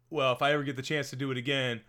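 lightly mocking repeat of "Well, if I ever get the chance to do it again"; quoting Costner. Host teasing Costner's commentary line, lightly mocking. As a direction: echo his words with a teasing lilt. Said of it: "where he says".

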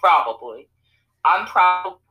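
words cutting out mid-sentence; call dropping out. Real, not acted. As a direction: voice breaking up on the call. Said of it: "Oop, you're glitching out".

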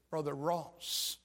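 slow, deliberate, each word weighed; slow firm testimony. Retold or imitated. Father answering the preacher, slow and firm. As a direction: lay it down slowly as settled truth.

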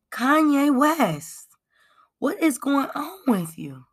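high, slow plea breaking into a whisper; pleading call. Real, not acted. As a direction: call out to him, then whisper the question. Pleading to Kanye directly.

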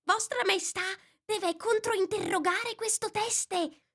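rabbit's low-voiced advice. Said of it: "che disse a bassa voce".

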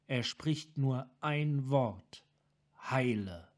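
a broken man forcing the words out; tormented Sarkan. Acted. Sarkan describes the voice.

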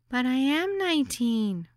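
put-on high, childlike protest; very young voice. A narrator's reading. Young hostess insisting on her age, high and childlike. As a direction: sound barely out of childhood, insisting. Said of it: "in a voice so young".

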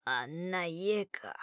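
soft, slow glum repeat; sullen mutter. Acted. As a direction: brood over the words, low. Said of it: "むっつりとそれを煽った". (むっつりとつぶやく)

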